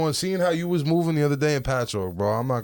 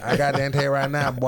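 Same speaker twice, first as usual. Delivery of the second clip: put-on repeated Tennessee accent bit; lightly put-on Tennessee accent. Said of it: "let me hear your Tennessee accent".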